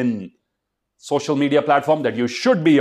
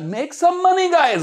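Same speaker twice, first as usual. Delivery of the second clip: excited push; 3 dB louder, slower than usual. Real, not acted. Urging students.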